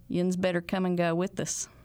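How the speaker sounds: relaxed Ozark hill twang. Shown as a demonstration. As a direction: speak it like an Ozark local. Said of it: "people that still say that today".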